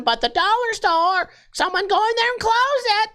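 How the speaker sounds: put-on high-pitched, indignant old lady voice; old lady impression. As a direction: screech it like a scandalized old lady caller. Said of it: "That was my old lady impression".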